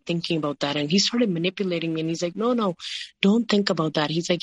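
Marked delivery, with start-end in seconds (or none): 2.3-4.1 higher-pitched retold protest; mildly pleading, quoted objection; urgent dissuading. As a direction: quickly wave the worry away, imitating someone. Retold husband urgently dismissing her doubts.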